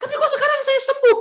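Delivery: high-pitched, breathless-with-news retelling; high, agitated, incredulous voice; excited disbelief. Retold or imitated. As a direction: act out an amazed healed person explaining. Healed senior excitedly explains, acted out.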